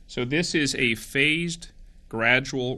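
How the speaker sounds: slow right down and space out the words. Real, not acted. Health official slowing down for Virginia, slow and deliberate. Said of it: "I'll slow down".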